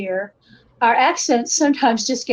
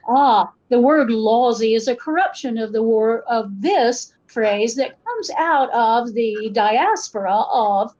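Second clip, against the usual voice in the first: put-on measured, explanatory standard American accent; careful code-switched American accent, slowing midway. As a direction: explain it like a regular American academic. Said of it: "code switching accent as a normal and regular American person".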